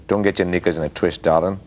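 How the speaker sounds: lightly nasal Australian delivery; nasal Aussie accent. Shown as a demonstration. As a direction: say it through the nose, Aussie style. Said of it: "if I speak it in a nasal way".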